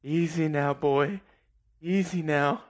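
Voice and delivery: coaxing a wild cat gently; calm and steady, talking a lion down; soothing. Retold or imitated. Mock rider soothing an animal, coaxing gently. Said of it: "What are you gonna tell it?".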